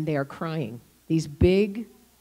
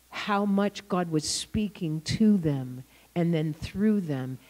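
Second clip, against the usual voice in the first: slow, hushed whisper; awed whisper; 4 semitones lower, 5 dB quieter, slower than usual. Real, not acted. Pastor telling the congregation about the boys, awed whisper. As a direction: breathe it out in wonder.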